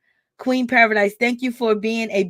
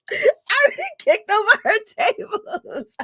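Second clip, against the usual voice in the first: high, giggling through the words; laughing; 10 semitones higher than usual. Real, not acted. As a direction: say it while cracking up, pitched up. Laughing repeat of threat.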